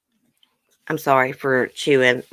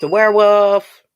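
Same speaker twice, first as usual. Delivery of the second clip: excited reveal; 5 semitones higher, 6 dB louder than usual. Real, not acted. Announcing the correct answer.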